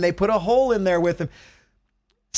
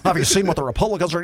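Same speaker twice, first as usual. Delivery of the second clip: talk show host voice; faster than usual. Retold or imitated. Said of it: "conservative talk show guy who's gonna have his voice right in here".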